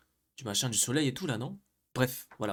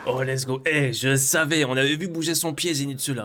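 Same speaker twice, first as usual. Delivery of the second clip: excited shouting; 3 semitones higher, 7 dB louder than usual. Real, not acted. Hyped reaction to fight.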